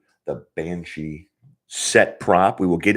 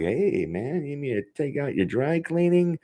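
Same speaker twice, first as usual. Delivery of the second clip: higher, hyped-up mock pestering of the boss's son; mock excited rant; 10 semitones higher than usual. Joking to listeners about pestering Bill, hyped-up and higher. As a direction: ham up an eager fan begging for inside news. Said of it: "So I'm like".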